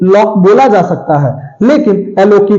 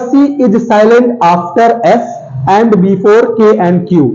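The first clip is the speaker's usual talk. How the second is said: slow dictated rule; 2 semitones higher, much slower than usual. Shown as a demonstration. Teacher dictating the rule to students. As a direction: rule read very slowly. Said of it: "कह रहा".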